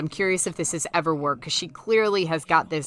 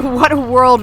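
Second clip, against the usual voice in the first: Wizard of Oz witch; 6 semitones higher, 10 dB louder than usual. Retold or imitated. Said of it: "an exact quote from Wizard of Oz".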